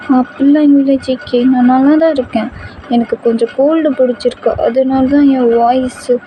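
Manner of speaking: put-on poorly girlfriend, pitched high; weak voice. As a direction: insist you're fine, haltingly. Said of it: "என் voice கொஞ்சம் வீக்காக இருக்கு".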